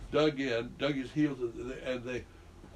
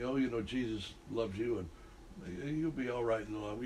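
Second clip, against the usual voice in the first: soft, gentle brush-off; 3 semitones lower, 6 dB quieter than usual. Shown as a demonstration. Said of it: "you don't just say".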